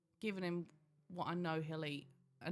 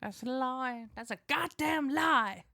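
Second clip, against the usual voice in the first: mock outrage; 6 semitones higher, 4 dB louder, slower than usual.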